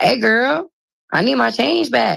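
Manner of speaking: high calling-out voice. Retelling a delivery driver walking off with the change: reenacting own exact past words. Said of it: "this is exactly how I said it".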